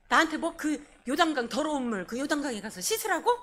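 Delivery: a touch of mock indignation; indignant Naaman. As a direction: protest like an offended Naaman, incredulous. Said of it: "너무 기가 막혀서 막 분노하면서".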